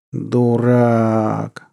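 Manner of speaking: long drawn-out exasperated groan; exasperated moan. A narrator's reading. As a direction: groan the word, stretching the vowel. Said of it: "простонал Наму".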